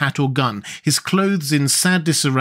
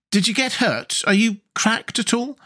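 put-on concerned boy; 9 semitones higher than usual. A narrator's reading. Tip voiced.

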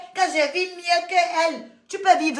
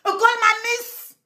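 high, slow sneering voice; mocking high voice; 8 semitones higher, much slower than usual. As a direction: stretch it out high to mock.

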